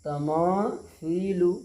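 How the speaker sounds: slow तमासीलु with a lisped th for सी; correct sa sound. Shown as a demonstration. Teacher modelling the right reading, slow th sound. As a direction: stretch तमासीलु, tongue-tip "thee" in place of "see". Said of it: "ये सही है".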